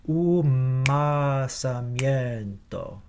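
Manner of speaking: Umasamiento with the lips closing early onto the m; right way. Shown as a demonstration. Choir director showing the right Umasamiento. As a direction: Umasamiento with a long held m closure on the offbeat. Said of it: "Here's what I am looking for".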